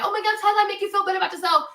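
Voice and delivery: rushed mock concern; mock gushing sympathy. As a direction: gush like a fake people-pleaser. Mocking people-pleasing viewers.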